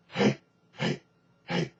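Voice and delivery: breathy grunted hey; cookie monster grunt. Shown as a demonstration. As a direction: push each hey from the diaphragm. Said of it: "that sort of cookie monster".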